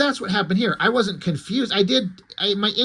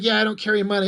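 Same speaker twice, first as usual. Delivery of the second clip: plain; 3 semitones higher, much faster than usual. Acted. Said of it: "she's like".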